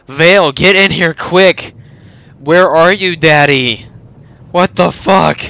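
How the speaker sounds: yelling for help in a panic; being chased. Real, not acted. Units dying fast, frantic calls.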